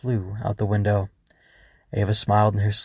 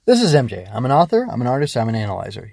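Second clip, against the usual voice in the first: upbeat intro; 3 semitones higher, 5 dB louder, faster than usual. Real, not acted. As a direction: announce yourself with energy.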